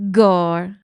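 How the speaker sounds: loud battle cry; shout. A narrator's reading. Meg shouting while waving her knife. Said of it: "shouted Meg".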